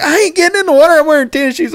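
high indignant refusal; buddy refusing. Retold or imitated. Friend refusing to wade into the pond, high indignant. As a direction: refuse flatly, shoes matter. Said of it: "He's like".

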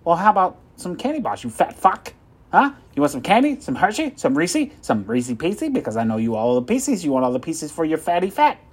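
shouting insults; jeering telemarketer yelling. Acted. Salesman insulting the old lady.

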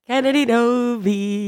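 congested, sick voice; nasal from a head cold; stuffy nose. Real, not acted. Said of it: "I'm sick this week, so I sound like Squidward".

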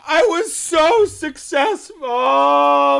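moaning. Real, not acted. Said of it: "Stop moaning".

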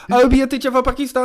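very high, loud, rushed mimicry; hammed-up squeal of a video character; imitating viral video. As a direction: parody the clip in a high, excited voice. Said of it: "You know that video? It's like".

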